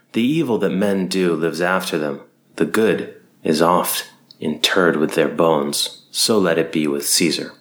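slow, grand stage delivery; Shakespearean oration. Acted. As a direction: declaim it like an actor to a crowd. Continues the recitation.

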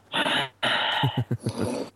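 heavy throaty breath in and out; ocean throat breathing. Shown as a demonstration. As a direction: demo a heavy Ujjayi breath. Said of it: "breathing really, I don't know if you can hear that".

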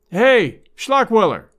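loud bawl toward the back room; bawling boss. Acted. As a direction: bawl the name across the shop. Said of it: "he bawled toward the rear".

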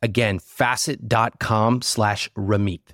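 lively sponsor pitch; ad read. Acted. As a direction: sell it like a podcast ad.

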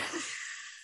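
soft, voiceless breath of a scream; failed scream attempt. Shown as a demonstration. Woman showing her scream attempt, voiceless and failed. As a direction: try to scream with no voice coming. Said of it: "I would try to".

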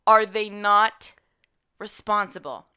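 outraged. Real, not acted. Outraged rant about hospital.

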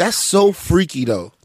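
slow, mocking whisper; teasing whisper. Host teases cohost back, mock whisper.

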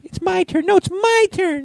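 put-on very high, whiny child voice; squeaky kids bickering; squabbling kids. Kids fighting over advent calendar.

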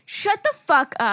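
slow, stretched-out disbelief; shocked disbelief. Real, not acted. Friend hearing the product came used, shocked disbelief. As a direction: draw out each word in shock.

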